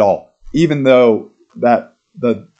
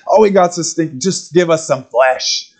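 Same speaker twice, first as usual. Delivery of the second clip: orc voice; 5 semitones higher than usual. Retold or imitated. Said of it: "resemble the orcs".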